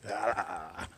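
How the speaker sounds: drawn-out "aah" at a web in the face; playful yell of horror; mock cry of disgust.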